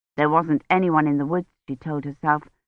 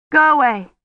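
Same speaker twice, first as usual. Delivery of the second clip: higher, louder, urgent; fearful command; 8 semitones higher, 4 dB louder than usual. Acted. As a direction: push him away with your voice. Warding off the cutthroat.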